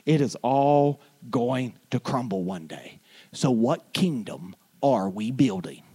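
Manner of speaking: low, weighty pulpit delivery; solemn preaching. Real, not acted. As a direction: let each sentence land gravely, with pauses. Solemn quoted saying in sermon.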